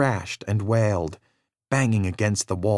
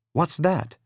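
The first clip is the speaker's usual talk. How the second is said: put-on higher, childlike wondering voice; little boy curious; 6 semitones higher than usual. A narrator's reading. Danny spotting the box, higher and childlike. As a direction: ask it like a curious small boy.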